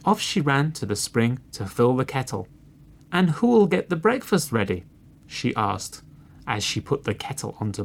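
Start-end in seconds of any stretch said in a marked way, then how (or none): 3.1-4.8 high hen voice, asking; storybook hen seeking a helper; little red hen. A narrator's reading. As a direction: pitch the question up like a hen.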